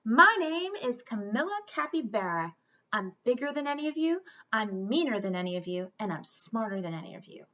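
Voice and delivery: big capybara bragging at the new class; bossy announcement. Acted. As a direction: brag to the whole class. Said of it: "barged into the classroom and announced".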